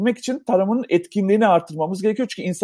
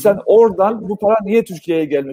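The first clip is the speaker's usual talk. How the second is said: echoing voice. Real, not acted. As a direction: voice echoing back through the line. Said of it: "sesim yankılanıyor".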